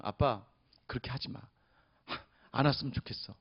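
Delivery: put-on small pleading child. Hurt daughter pleads with father.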